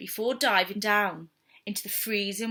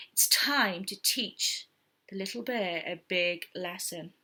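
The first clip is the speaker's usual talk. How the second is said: conspiratorial whisper; 4 semitones lower, 6 dB quieter than usual. Acted. Animals whispering their plan to teach the cub a lesson.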